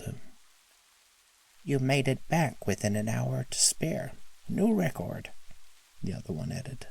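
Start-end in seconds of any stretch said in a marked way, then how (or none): 1.6-5.3 eager high elf voice; excited little helper. Acted. Other elf reports record.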